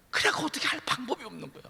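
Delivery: ordinary talk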